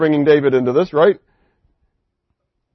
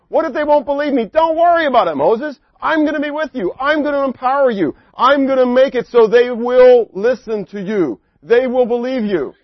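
acted dialogue; 6 semitones higher, 3 dB louder than usual. Preacher acts out Moses and God.

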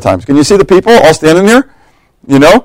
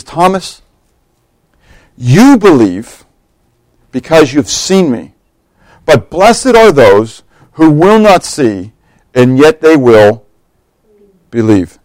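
gentle Jesus; slower than usual. Retold or imitated. Jesus gently answers Thomas, slow and tender. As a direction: speak it slowly, kindly.

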